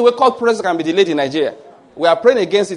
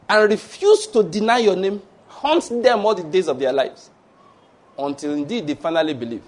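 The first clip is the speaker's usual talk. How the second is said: modelled prayer; slower than usual. Shown as a demonstration. Models a merciful prayer for persecutors.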